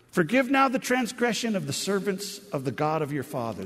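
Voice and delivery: laid-on-thick pleading. Acted. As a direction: lay on the appeal to family ties. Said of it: "They're really laying it on thick".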